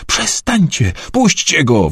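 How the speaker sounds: high-pitched, contained yell; narrated yell. A narrator's reading. Alfie yelling at the attackers dragging Wilberforce away, high cry. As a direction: cry out high without much extra volume. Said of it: "wrzasnął Alfie".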